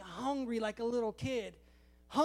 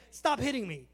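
complaining sword. Acted. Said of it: "if the sword could talk".

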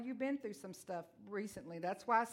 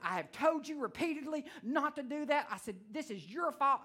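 scolding mom; 5 semitones higher than usual. Retold or imitated. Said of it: "that's how I was talking to mine".

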